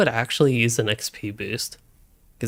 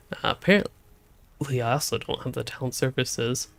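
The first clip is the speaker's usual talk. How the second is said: hiccups; 3 dB quieter than usual. Real, not acted. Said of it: "I don't know why I'm hiccuping so much".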